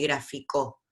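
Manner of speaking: gráfico said as grafi-CÓ; wrong final stress. Shown as a demonstration. Teacher showing a second wrong form, final stress on gráfico. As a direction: land hard on the last syllable of gráfico. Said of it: "No es gráfico ni gráfico".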